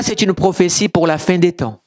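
ordinary talk

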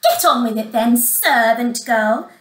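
loud, bossy stepsister; scornful command; bossy order. Acted. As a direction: order the servant about, leaning on the last words. Stepsister orders servant about.

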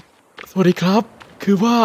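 mock a streamer's affected handsome voice; handsome gamer voice. Shown as a demonstration. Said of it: "เสียงหล่อคือประมาณแบบ".

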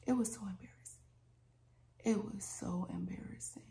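soft, sighing admission; quietly embarrassed. Real, not acted. Storyteller admitting her embarrassing mistake to viewers, quietly embarrassed. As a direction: drop the voice in embarrassment.

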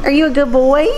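high coaxing pet voice; sweet high praise for a puppy; talking to a dog. Real, not acted. Praising dog, rising tune.

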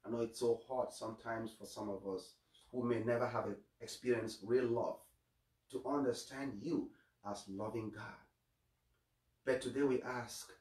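hushed pastor's prayer. Acted. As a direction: pray gently to God. Closing prayer.

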